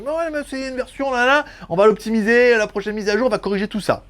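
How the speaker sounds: mock manufacturer. Imite la réponse des fabricants.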